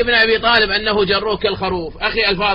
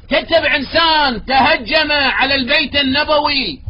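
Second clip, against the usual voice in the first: angry accusation; 5 semitones higher than usual. Real, not acted. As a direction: build into a furious charge. Heated debate accusation.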